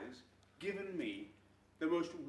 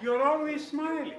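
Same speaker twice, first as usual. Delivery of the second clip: slow mock Indian-Welsh accent, high and loud; receptionist's accent; 8 semitones higher, 10 dB louder than usual. Husband redoes the receptionist line in a slow accent. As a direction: draw it out, higher. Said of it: "the lady said".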